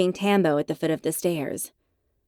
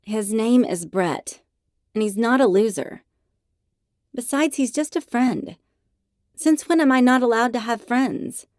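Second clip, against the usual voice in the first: rising, louder, defensive; indignant; 5 semitones higher, 4 dB louder than usual. Acted. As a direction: push back harder each line. Defending friend in argument.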